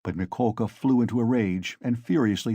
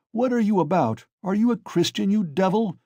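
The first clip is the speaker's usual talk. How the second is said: put-on outraged old man; 9 semitones higher than usual. A narrator's reading. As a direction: scold the brute. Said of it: "shouted an old man in the crowd".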